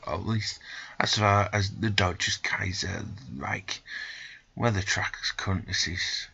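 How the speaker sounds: measured storybook reading of the travel tale; story narration. A narrator's reading. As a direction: read it like an adventure novel. Reads game story narration.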